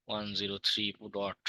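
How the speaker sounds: choppy, breaking-up call audio; buffering stutter. Real, not acted. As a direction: voice cutting in and out. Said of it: "আপনার voice ভেঙে ভেঙে আসতেছে".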